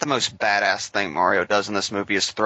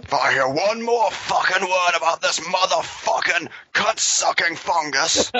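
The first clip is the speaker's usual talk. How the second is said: put-on Cockney accent; 8 semitones higher than usual. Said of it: "cursing at him in his Cockney accent".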